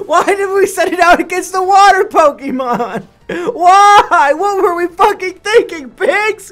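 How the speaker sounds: high, loud, anguished rant; exasperated yelling. Real, not acted. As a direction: yell in despair at the team. Despairing rant at own team.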